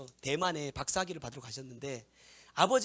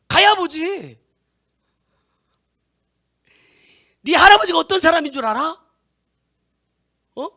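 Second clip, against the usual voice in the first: loud, high furious scolding; father's angry scolding; 14 semitones higher, 21 dB louder than usual. Retold or imitated. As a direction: berate your son at the top of your voice. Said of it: "엄청 역정을 내셨어". (아들을 야단치는 아버지의 화난 고함)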